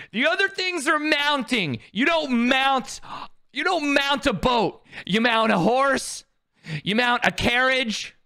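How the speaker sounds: real indignant rant; exasperated rant. Real, not acted. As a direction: spell it out like to a fool. Ranting at own mistake.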